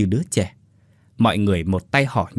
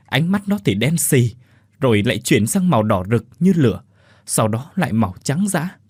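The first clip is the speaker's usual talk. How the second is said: frightened retelling; 4 semitones higher than usual. Acted. Son retells terrifying apparition.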